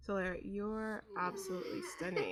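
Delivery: breaking into laughter mid-compliment; can't keep a straight face, laughing; laughing through line. Real, not acted. Voicing line while laughing.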